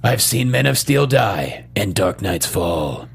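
slow, low dramatic trailer read; movie trailer voice. Pretend. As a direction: deliver it like an epic trailer. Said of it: "Let me do it again".

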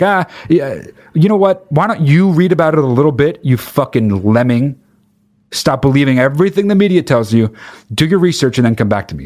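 high, sneering know-it-all; mocking theorist voice. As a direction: talk down to a lemming, pitched high. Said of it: "it's always just like".

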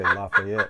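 "Lafayette" as lah-fay-ETT; full-vowel pronunciation. Shown as a demonstration. Co-host guessing how Indiana says it, full-vowel pronunciation. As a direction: give "Lafayette" an open first vowel and a clear -ETT.

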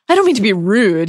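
a touch of barely polite menace; mildly rude undertone beneath the politeness; lightly acted, about to be rude; threatening rudeness. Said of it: "in a tone that threatened rudeness".

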